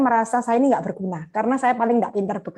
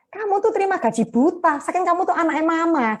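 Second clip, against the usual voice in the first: mock teasing, pitched higher; teasing older brother; 5 semitones higher than usual. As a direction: lightly mimic a brother ribbing her. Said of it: "kalau bercanda sama saya gini". (menirukan kakak yang mengejek, nada lebih tinggi)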